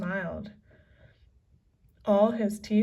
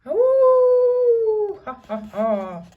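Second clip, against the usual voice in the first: very high howl then laughing; wolf howl and laugh; 14 semitones higher, 12 dB louder, much slower than usual. A narrator's reading. Pirates howling with greed, high wolf howl. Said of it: "howled like wolves".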